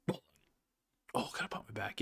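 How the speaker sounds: whispered, half to himself; whispered aside. Real, not acted. Muttering to himself while cracking his back, whispered. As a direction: breathe it out under his breath.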